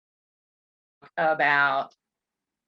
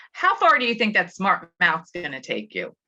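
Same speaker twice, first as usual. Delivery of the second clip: scolding; 4 dB louder than usual. Shown as a demonstration. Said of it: "Instead of saying".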